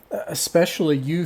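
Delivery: lightly voiced grand hostess; booming voice. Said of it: "in an echoing, booming voice".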